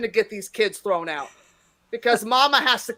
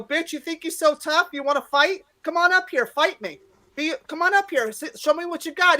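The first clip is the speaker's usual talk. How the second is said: higher-pitched, daring a heckler on; retold challenge; 5 semitones higher than usual. Comic calling a heckler up to fight, mock challenge. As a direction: goad him into it, without shouting.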